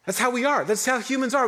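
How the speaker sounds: high, laughing remark. Real, not acted. Preacher laughing to the congregation about human nature.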